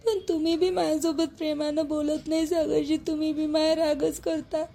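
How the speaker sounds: crying. Acted. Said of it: "रडणं बंद कर आता".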